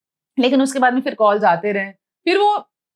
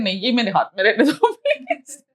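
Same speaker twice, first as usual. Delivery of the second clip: pleading. Retold or imitated. Begging to keep her handkerchief.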